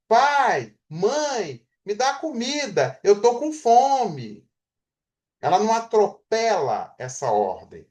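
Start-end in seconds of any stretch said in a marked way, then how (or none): 0.1-4.5 put-on a child's plea, higher, slow at the end; child asking for food. Shown as a demonstration. Teacher voicing a child asking her parents for food, higher and slow. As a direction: ask like a small child, drawing it out. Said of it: "nesta ordem".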